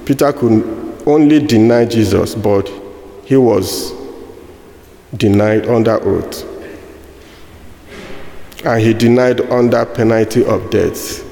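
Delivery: ordinary talk, nothing marked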